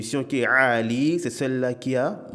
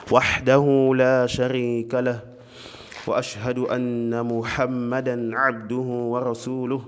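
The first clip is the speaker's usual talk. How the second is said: formal Arabic sermon opening, measured monotone with long held vowels; prêche d'ouverture; faster than usual. Acted. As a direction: intone the opening praise evenly, stretching the long vowels. (prêche d'ouverture psalmodié en arabe)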